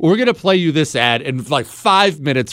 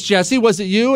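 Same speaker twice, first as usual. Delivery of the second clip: wife's voice; 6 semitones higher than usual. Retold or imitated. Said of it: "And she says".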